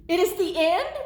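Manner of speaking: high, loud, rising panic; alarmed question. Acted. Gerald mishearing pretend as the end, alarmed. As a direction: cry out in comic dread.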